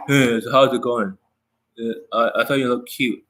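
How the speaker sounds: lightly mocked deadpan pickup line, no expression; expressionless coach. Expressionless coach approaching a girl, mock deadpan. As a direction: imitate a stiff-faced, halting dating coach. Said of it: "face does not move when they talk".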